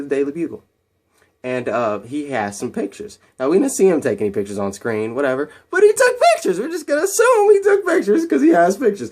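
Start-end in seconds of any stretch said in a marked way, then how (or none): 5.7-9.1 high, loud mock-exasperated aside; sarcastic aside. Real, not acted. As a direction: roll your eyes at the movie out loud. Sarcastic aside about plot hole.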